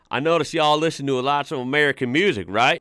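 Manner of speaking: lightly put-on Texan accent. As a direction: have a go at a Texan. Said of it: "I gotta do my best Texan accent".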